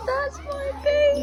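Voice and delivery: high, slow cooing; baby talk. Acted. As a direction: coo at the little goat. Cooing at goat.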